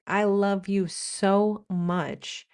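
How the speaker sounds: slow, drawn-out declaration of love; heartfelt American gushing. Acted. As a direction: stretch it out as if you really feel it. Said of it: "and if you feel it".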